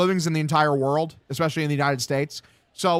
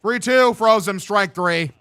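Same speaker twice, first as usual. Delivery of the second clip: strikeout call; 5 semitones higher, 4 dB louder, slower than usual. Acted. Announcer calls strikeout.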